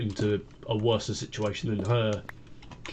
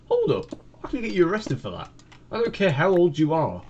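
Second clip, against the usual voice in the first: higher, hammed-up threat of arrest; mock stern warning; 6 semitones higher than usual. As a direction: play it as an outraged adult, higher. Warning off the little girl.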